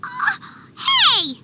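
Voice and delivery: loud, high offended outburst; indignant protest. Acted. Paimon protesting the slight on Utamaro, indignant. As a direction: call out the insult.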